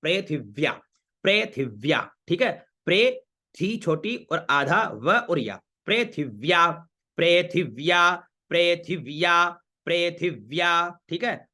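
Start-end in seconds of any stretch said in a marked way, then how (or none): 0.0-2.1 पृथिव्या broken as pre-thiv-ya; syllable-by-syllable demo. Shown as a demonstration. Teacher showing students how पृथिव्या is pronounced, careful syllables. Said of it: "उच्चारण क्या हुआ?". 5.9-11.0 पृथिव्या stretched as preee-thiv-yaa; slow pronunciation drill. Shown as a demonstration. Teacher drilling पृथिव्या for students, slow measured syllables. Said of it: "उच्चारण क्या हुआ?".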